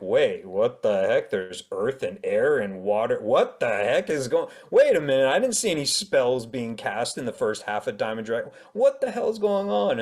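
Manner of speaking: rising puzzled reader voice; mock baffled reader. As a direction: act out a confused reader. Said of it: "people can be like".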